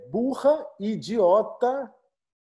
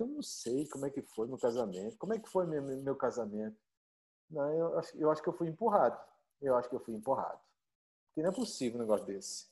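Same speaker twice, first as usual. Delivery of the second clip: much softer, half to himself; puzzled muttering; 5 semitones lower, 8 dB quieter, faster than usual. Acted. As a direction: mumble it like a baffled husband. Confused husband muttering to himself.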